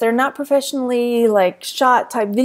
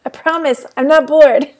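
laughing; 4 semitones higher, 5 dB louder than usual. Real, not acted. Laughing right after a yawn.

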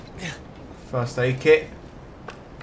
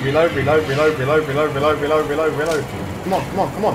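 frantic; 2 semitones higher than usual. Real, not acted. Frantic reload in fight.

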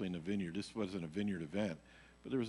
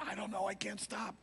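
helpless reply; 12 semitones higher, 4 dB quieter than usual. Retold or imitated. His helpless answer to wife.

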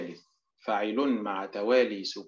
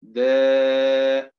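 شهداء called out louder, syllable by syllable; stressed drill word; 7 dB louder than usual. Shown as a demonstration. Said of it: "teacher drills word pronunciation". (نطق شهداء بصوت أعلى)

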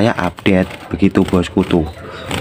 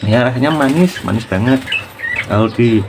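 chewing. Real, not acted. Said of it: "kedengeran nggak itu tak kunyah".

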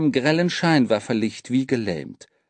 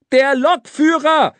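loud, high exasperated repeat; high-pitched yell; boy shouting; 13 semitones higher, 7 dB louder than usual. A narrator's reading. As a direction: shout the answer so it gets through. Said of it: "schrie der Junge".

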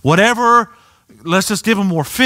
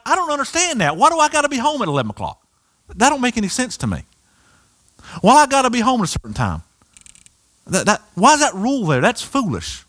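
put-on whiny teenager; 2 semitones higher, faster than usual. Child voiced whining about curfew.

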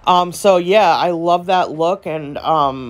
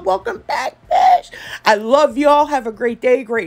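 sassy greeting; 4 semitones higher than usual. Acted. Sassy sign-off to returning viewers.

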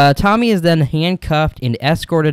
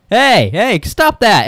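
higher-pitched called-out order; mock scolding; 6 semitones higher, 4 dB louder, much slower than usual. Deputy interrupting the couple in the cell, mock scolding. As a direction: break it up with a raised, acted voice.

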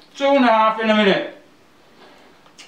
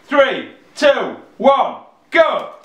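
loud, rising countdown call; countdown shout; 4 semitones higher, 3 dB louder, much slower than usual. Real, not acted. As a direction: count them in loudly.

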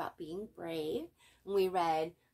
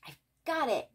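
a bit higher, eager cry; mock yell; 6 semitones higher, 4 dB louder than usual. A narrator's reading. Arthur announcing his brave idea, mild eager yell. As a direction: pop out the idea. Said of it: "yelled Arthur".

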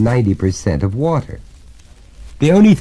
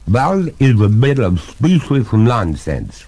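indignant ghost; 4 semitones higher, slower than usual. Acted. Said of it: "throwing a quart of indignation".

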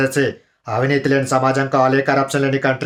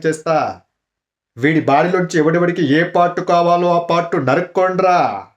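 a hint of Prakash Raj's mocking villain; mild Prakash Raj mimicry of an Okkadu dialogue; Prakash Raj impression. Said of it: "Prakash Raj గారి voice".

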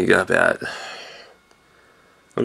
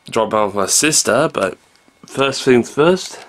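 ordinary talk

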